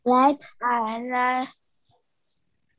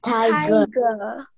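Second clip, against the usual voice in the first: group repeating after leader. Real, not acted. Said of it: "everyone repeat after me".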